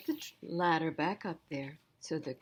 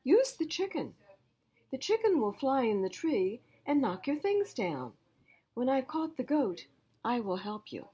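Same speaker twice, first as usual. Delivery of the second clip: higher, eager cousin voice; cousin giving advice; 7 semitones higher, 4 dB louder than usual. Acted. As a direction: toss off the idea cheerfully.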